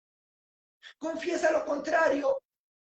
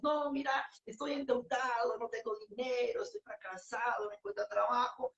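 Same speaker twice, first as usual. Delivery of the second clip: complaining; 2 semitones lower, 5 dB quieter than usual. Retold or imitated. A person answers a greeting by complaining about debts, in a defeated voice. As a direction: play it as a defeated man listing his woes. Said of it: "Deja de hablar sobre tu tormenta".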